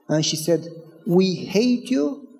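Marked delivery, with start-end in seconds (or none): 1.1-2.3 soft, slow, understated retelling of a sobbing woman; tearful. Retold or imitated. Woman confessing to kind neighbor, understated tearful. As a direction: imitate a broken voice, hushed and slow. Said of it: "She was sobbing".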